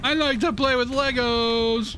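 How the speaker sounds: slow, high and loud helium voice; squeaky helium voice filter. Shown as a demonstration. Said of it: "I got helium voice turned on".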